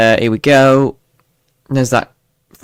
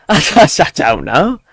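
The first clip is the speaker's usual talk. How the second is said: tentative stab at a Birmingham accent; half-hearted, swooping Brummie lilt; Brummie attempt; 3 semitones higher than usual. Shown as a demonstration. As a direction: try Brummie and give up. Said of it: "No, I can't, I'm afraid".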